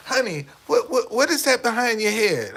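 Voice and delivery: mock alarmed wife; wife asking. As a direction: play the wife, alarmed and puzzled. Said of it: "And she said".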